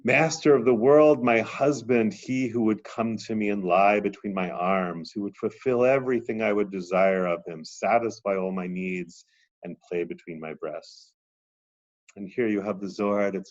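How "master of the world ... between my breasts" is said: a bereft queen calling for her husband, then trailing off; grieving goddess. Acted. Teacher voicing the Shekhinah calling her husband, loud then fading. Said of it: "sob and wail".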